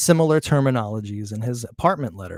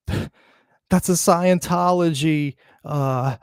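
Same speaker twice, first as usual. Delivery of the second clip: high, slow, drawn-out mock pundit voice, much higher and louder; mocking Maury voice; 7 semitones higher, 4 dB louder than usual. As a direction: ham up a pompous expert's reveal. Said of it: "Maury was like".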